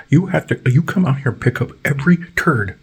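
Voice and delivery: high put-on neighbor voice; high-pitched nagging neighbor; mock neighbor. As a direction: whine the demand up high. Neighbor demanding, acted.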